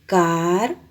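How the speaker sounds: Cartera with a light single tap; Cartera, gentle tapped r; soft tapped r. Shown as a demonstration. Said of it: "Y suena suave".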